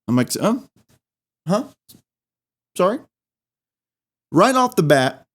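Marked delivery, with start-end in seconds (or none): 0.4-3.0 put-on flustered kid. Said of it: "a kid with the stutter".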